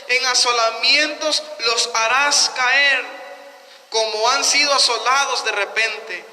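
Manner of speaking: slow, emphatic declamation from the pulpit; scripture reading. Acted. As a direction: proclaim the verse weightily, phrase by phrase. Reads scripture aloud to congregation. (lectura bíblica solemne, lenta y enfática)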